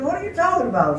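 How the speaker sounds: wife asking why he mumbles, high and puzzled. Retold or imitated. Wife asks about mumbling.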